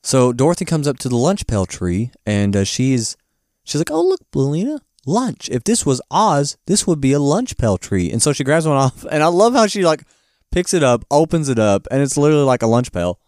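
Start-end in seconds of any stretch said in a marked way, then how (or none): 3.9-8.1 high, excited child imitation; mock girlish delight. Dorothy showing Belina the lunch tree, mock excited. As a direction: start high and delighted, easing down.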